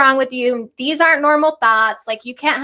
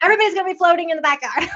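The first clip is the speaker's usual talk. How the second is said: mock panic; 6 semitones higher, much faster than usual. Telling her mom about the pool, in hammed-up mock panic. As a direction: play up the disaster fear as a joke. Hammed-up drowning fear, rushed.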